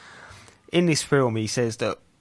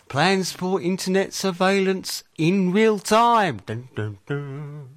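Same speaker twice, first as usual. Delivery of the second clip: mock ominous; 8 semitones higher, slower than usual. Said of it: "Not meaning to scare everyone".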